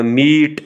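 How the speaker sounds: मीट with a lengthened ee; long vowel. Shown as a demonstration. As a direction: stretch the ee in मीट before the t. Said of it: "आवाज़ को आपने लंबा करना है". (मीट में ई की लंबी आवाज़)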